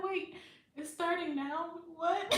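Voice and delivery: high, startled retelling of her own panic; shocked disbelief. Retold or imitated. Mother told to push, shocked and high-pitched. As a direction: caught off guard, voice jumping up.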